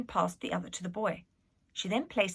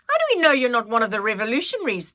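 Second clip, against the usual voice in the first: fast, louder accusing question; demanding; 4 semitones higher, 10 dB louder, faster than usual. A narrator's reading. Nanny demands to know if the girl is a rebel, fast and loud. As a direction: grill her hard. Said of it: "demanded Nanny".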